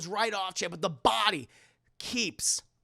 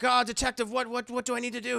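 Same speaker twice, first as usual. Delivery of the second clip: slightly higher, hurried plea; lightly voiced flustered woman asking for help; worried Karen; 4 semitones higher, faster than usual. Karen asks the detective what to do, flustered.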